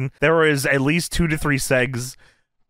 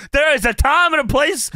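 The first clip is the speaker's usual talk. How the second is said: high, indignant mock shout; mock scolding; 10 semitones higher, 4 dB louder than usual. Host playing Mongo breaking up an argument, mock indignation. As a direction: scold loudly, imitating an outraged bystander.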